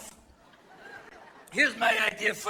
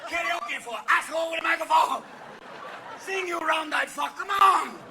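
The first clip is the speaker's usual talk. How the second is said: put-on higher, shouting drunk; mock drunk bellowing at a karaoke bar; hammed-up drunk yelling; drunk Japanese karaoke; 5 semitones higher than usual. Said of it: "after five Jack Daniels".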